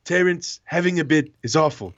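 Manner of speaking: words squeezed out between laughs; cracking up mid-impression; laughing through it. Host cracking up reading the fake Trump tweet, laughing.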